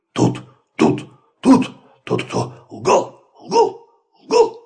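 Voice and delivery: barking dog voice, hoarse. Acted. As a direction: bark it out raspy. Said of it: "Он совсем охрип". (хриплый лай)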